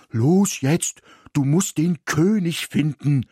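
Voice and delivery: dog cutting off the daydream; interrupting dog. A narrator's reading. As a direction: cut in impatiently. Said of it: "unterbrach Ismir".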